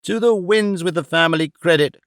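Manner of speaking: put-on a touch of contempt from an old man; mild scornful dismissal; understated indignant retort; scornful indignation. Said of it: "with great scorn and indignation".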